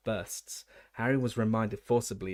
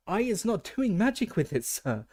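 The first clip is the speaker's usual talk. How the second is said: very high, loud, tearful elf squeal; squealing house-elf; 10 semitones higher, 3 dB louder than usual. A narrator's reading. Frightened house-elf squeals at the official, very high and loud. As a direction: squeal your innocence in terror. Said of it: "squealed Winky".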